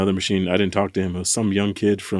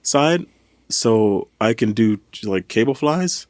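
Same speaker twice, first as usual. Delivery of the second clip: put-on slow, a higher try at a Colombian accent; Colombian accent attempt; 4 semitones higher, slower than usual. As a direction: drag out a half-hearted Colombian accent. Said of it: "I'm trying to replicate his accent".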